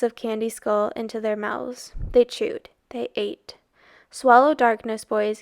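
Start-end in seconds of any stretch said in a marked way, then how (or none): 4.1-5.4 commanding. Acted. Montrud commanding the boys.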